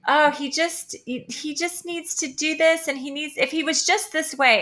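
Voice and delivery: mimicking women. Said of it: "women will be like".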